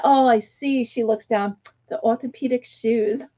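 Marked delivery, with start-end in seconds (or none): 0.1-0.8 mock British accent, slightly raised. Woman looking down at another's feet, mock British accent. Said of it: "she had this British accent". 1.9-3.2 lightly mimicked British accent. Older woman remarking on a stranger's sandals, mock British accent. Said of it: "she had this British accent".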